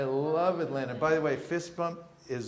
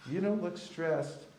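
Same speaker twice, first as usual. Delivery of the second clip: slow calm line swelling into a loud, lifted spiritual; building to loud; 2 semitones higher, 4 dB louder, much slower than usual. Shown as a demonstration. Teacher voicing the line for the class, slow then loud. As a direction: build from gentle to a loud, bright payoff on spiritual. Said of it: "the next thing you say is".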